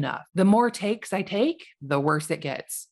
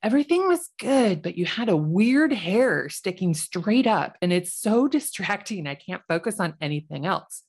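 critic voice. Retold or imitated. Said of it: "constructive criticism about that video".

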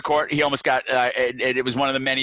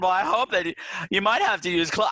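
lightly imitated wide, open vowels; wide-mouthed Hilda; 3 semitones higher than usual. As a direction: mimic her, mouth stretched wide. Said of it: "talks with her mouth really wide".

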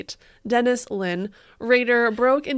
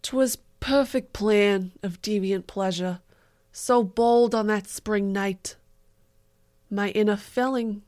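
put-on Staten Island accent; 4 dB louder, slower than usual. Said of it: "read Dennis Rader's poem in a Staten Island accent".

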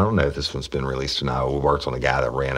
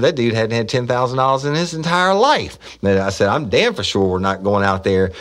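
emphatic refusal; 9 semitones higher, 4 dB louder than usual. Retold or imitated. Flat refusal to colleague.

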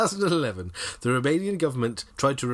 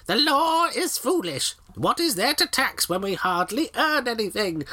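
witch voice; 8 semitones higher than usual. Acted. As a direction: croak it out like an old witch. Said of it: "I'll do a witch voice".

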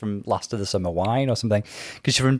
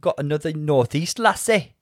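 botched Geordie attempt, pitched up; bad Northeast accent; 5 semitones higher than usual. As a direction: try and miss a Newcastle accent. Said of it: "Oh my God, that was even worse".

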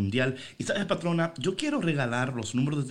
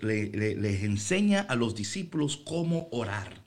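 ordinary talk

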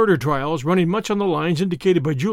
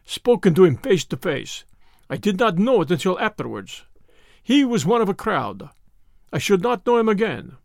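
put-on lightly accented Russian, measured and wary; a hint of a frightened conspirator; fearful Russian; 4 semitones higher than usual. Russian warns his captor about Mr. Brown, fearful.

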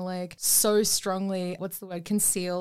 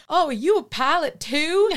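eager small talk; 7 semitones higher, 6 dB louder than usual. Retold or imitated. Acting movie waiting-room small talk.

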